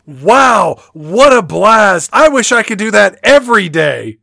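loud, high deadpan line read; flat movie line. Retold or imitated. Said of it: "he literally says".

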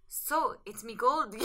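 slow stage Irish lilt on "so, it's me gold."; understated Irish leprechaun voice. Acted. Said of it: "I have to be a man".

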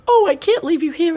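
high-pitched, wailing mom impression; imitating distressed mom. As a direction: mimic a mother distraught at leaving her child. Imitating distressed mom at treatment center.

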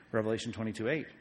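normal talking voice

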